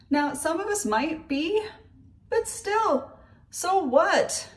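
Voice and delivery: high, laughing through the words; nervous laugh. Real, not acted. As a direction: giggle nervously while scolding. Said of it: "That's my nervous laugh".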